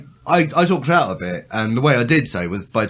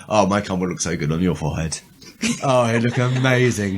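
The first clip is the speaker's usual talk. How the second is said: lower-pitched, hammed-up sweet talk; mock flirting; 4 semitones lower than usual. Podcaster showing friends some joke flirting, mock seductive. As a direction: coo a joke come-on, pitched down. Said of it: "I could do some flirting".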